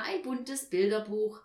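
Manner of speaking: loud, confident exclamation; calling out. A narrator's reading. Papa completing his guess, calling out loudly. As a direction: announce the answer at full voice. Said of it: "rief Papa".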